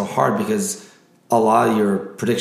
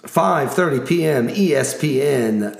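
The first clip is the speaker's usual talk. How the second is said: announcer voice; 2 semitones higher than usual. Acted. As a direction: hype each matchup like a ring announcer. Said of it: "my announcer voice".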